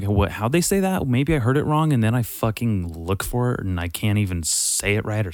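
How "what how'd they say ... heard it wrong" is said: high, puzzled self-quote; confused. Retold or imitated. Podcast listener mishearing a word, high puzzled. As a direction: play back your own confusion, pitched up. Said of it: "I'm like".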